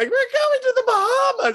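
mock thrilled scream, pitched way up, very high, excited. Speaker re-enacts her reaction to a contest on her phone, retelling a scream. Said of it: "she's like screaming".

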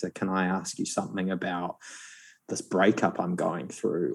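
soft, hushed, secretive confiding half-whisper. Retelling what guys in the gym asked the psychiatrist: imitating a hushed half-whisper. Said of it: "often in a whisper and kind of hushed".

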